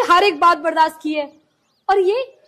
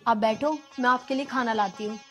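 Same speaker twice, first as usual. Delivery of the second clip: soft pleading; 3 semitones lower, 5 dB quieter than usual. Acted. Wife calms husband softly.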